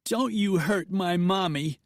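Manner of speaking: put-on a small girl standing up to the outlaw; demanding little girl. A narrator's reading. Little girl defending her mother, demanding and high. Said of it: "she demanded".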